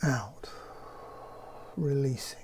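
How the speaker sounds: calm, unhurried meditation voice with long pauses; guided meditation. Acted. Leads a guided breathing meditation.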